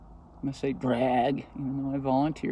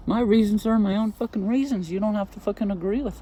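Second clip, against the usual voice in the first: angry; 5 semitones higher, 4 dB louder than usual. Real, not acted. Angry rant about being detained.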